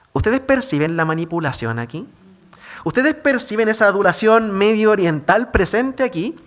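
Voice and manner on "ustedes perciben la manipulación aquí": normal talking voice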